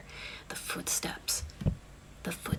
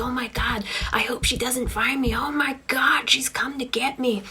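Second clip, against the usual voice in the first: acted terror, higher-pitched pleading; storyteller's hammed-up frightened voice; shaking with fear; 4 semitones higher, 4 dB louder than usual. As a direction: play a terrified man in hiding, pitch climbing. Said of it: "he's shaking like".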